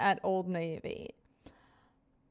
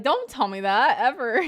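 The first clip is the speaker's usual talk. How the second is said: mock protest; 2 semitones higher, 6 dB louder than usual. Acted reply to a partner's bad dream.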